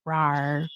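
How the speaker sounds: playful little rawr; a cute dinosaur growl; dinosaur roar. Pretend. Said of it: "That's my dinosaur noise".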